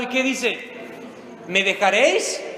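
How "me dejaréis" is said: loud, drawn-out anguished proclamation; anguished cry. Acted. Preacher voicing Jesus to his congregation, loud and slow. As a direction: cry it out slowly, each word stretched.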